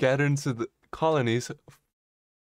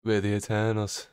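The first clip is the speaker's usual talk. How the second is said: mock Eternal accent. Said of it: "it's the Eternal accent".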